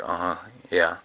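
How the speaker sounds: lightly mocked, low-key interjection; imitated interrupter. Coach imitating a listener who interrupts, lightly mocking. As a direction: imitate someone half-listening and butting in. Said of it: "that guy that interrupts somebody".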